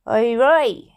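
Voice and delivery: breathy whispered greeting. Acted. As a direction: call it out in a hushed whisper. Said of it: "he said with a wave".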